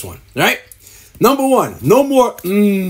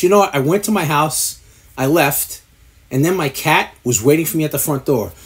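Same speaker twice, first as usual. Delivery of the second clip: mock pompous guest; 5 semitones lower than usual. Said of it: "he says something like this".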